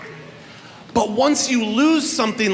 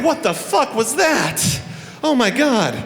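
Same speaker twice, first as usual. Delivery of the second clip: stunned disbelief; 5 semitones higher than usual. Pretend. Runner misses baton.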